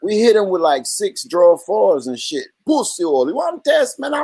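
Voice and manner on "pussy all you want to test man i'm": imitated angry islander, jumping up high; Caribbean island accent. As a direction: burst into a mock island accent when riled. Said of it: "it was exactly like that".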